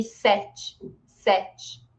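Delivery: "sete" ending in a light ee; final E as I. Shown as a demonstration. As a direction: say "sete" as SEH-chee. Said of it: "o E final eu pronuncio com som de I".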